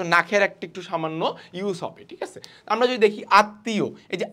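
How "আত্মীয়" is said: আত্মীয় with a long double t and no m; doubled consonant. Shown as a demonstration. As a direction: say আত্মীয় as at-tiyo. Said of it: "দ্বিত্ব হচ্ছে দুইবার উচ্চারণ হবে".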